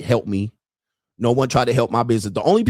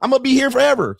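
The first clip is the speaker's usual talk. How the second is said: gleeful taunt; 12 semitones higher, faster than usual. Real, not acted. Host taunting his critics, gleeful and high. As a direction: crow it like you already won.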